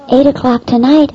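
tonight rising into a shocked question; surprised echo. Retold or imitated. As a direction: echo the time back in disbelief. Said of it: "I said".

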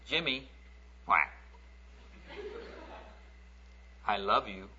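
put-on soft, gentle little girl's voice; lightly voiced little girl reaching out in love; sweet little girl. Little girl softly telling the bully she loves him. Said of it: "this little sweet voice".

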